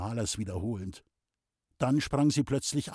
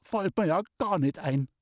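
indignant; 5 semitones higher than usual. Acted. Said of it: "ganz entrüstet".

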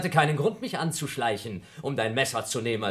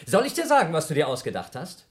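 loud challenge; 3 semitones higher, 6 dB louder than usual. Acted. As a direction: throw the question at him. Heated accusation in a quarrel.

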